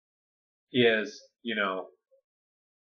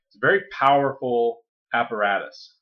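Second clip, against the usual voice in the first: ordinary talk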